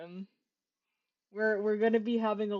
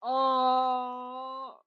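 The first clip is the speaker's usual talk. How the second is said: mock sob; 3 semitones higher, 4 dB louder than usual. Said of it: "I'm over-exaggerating this right now".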